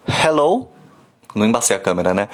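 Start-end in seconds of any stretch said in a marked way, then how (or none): 0.1-0.7 "hello" com H de bafo que embaça o vidro; fogging-glass h. Shown as a demonstration. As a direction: bafeje o H de "hello" num copo. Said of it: "chega num copo e fala". (H que embaça o vidro)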